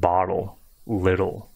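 bottle, little with the T tapped like a D; lightly flick the middle of bottle, little; soft-D double T. Shown as a demonstration. Teacher giving double T examples, soft D sound. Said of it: "almost sound like a soft D".

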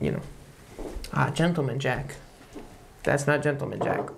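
speaking into a glass; sipping between words; glass at mouth. Real, not acted. Seen 0: Both men hold whisky glasses at mouth; speaker unclear.

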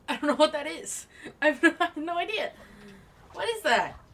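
loud, fast, high frantic confusion; exasperated. Real, not acted. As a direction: rant it out in a panic.

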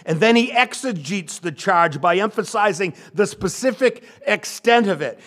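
ordinary talk, nothing marked

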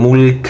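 "মুলক" stopped on a bare k; pausal ending. Shown as a demonstration. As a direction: end "মুলক" without any u. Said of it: "ওকফ করি".

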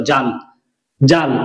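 জাল as one closed syllable; final letter pulled in. Shown as a demonstration. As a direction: draw ল onto জা to make জাল. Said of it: "লকে টেনে নিলাম".

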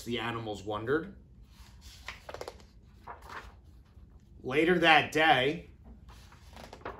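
lively storybook read-aloud; reading to children. A narrator's reading. Teacher reading a picture book to her kindergarten class, animated. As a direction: read it like circle time for little ones.

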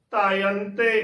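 ਤਾਇੰਤੇ as "taa-yan-te"; long aa, then nasal yan in ਤਾਇੰਤੇ; ਤਾਇੰਤੇ in three clear syllables; shown pronunciation. Shown as a demonstration. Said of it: "ਉਚਾਰਨ ਕਰਨਾ ਹੈ".

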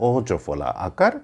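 অজফলা আকার drawn out slowly; slow spelled-out demo. Shown as a demonstration. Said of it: "একারান্ত". (ধীরে অজফলা আকার)

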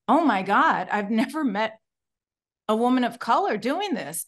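amazed, with a loud burst at the start; mock shocked. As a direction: retell her astonishment, lightly acted. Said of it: "she was shocked".

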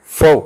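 "fau" starting with f; German letter name. Shown as a demonstration. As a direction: pronounce "fau" as f plus ow. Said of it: "It is pronounced as". ("fau" German ഉച്ചാരണത്തിൽ)

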